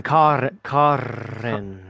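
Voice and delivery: low, drawn-out imitation of the dropped-R accent; mock accented "Carren". Friend echoing how he said Cotton, mock drawn-out accent. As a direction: stretch the name out slowly in a mock accent. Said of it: "There it is again".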